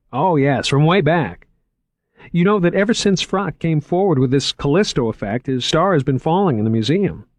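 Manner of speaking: an excited curator showing off; eager young curator. Acted. Narrator voices Moriarty.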